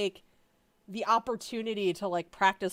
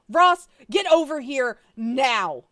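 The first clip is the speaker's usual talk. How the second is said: loud, slow demanding call; yelled into the phone; 5 semitones higher, 11 dB louder, slower than usual. Acted. Monica summoning Ross, loud slow yell. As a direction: shout the order into the phone. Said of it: "she yelled in the phone".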